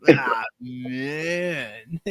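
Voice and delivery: slow, spaced-out hippie drawl; lightly voiced stoned cat Bailey; mellow dreamy hippie. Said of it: "So my hippie voice character".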